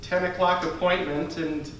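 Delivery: simmer quietly over the wait; impatient customer. Acted. Waiting customer complains about late appointment, quiet seething.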